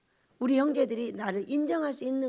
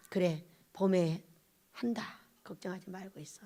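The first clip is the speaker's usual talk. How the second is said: gentle reassurance; 6 semitones lower, 10 dB quieter than usual. Retold or imitated. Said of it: "이렇게 이제 말씀을 해주셨어요".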